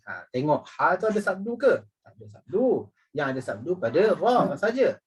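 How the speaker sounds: usual speaking voice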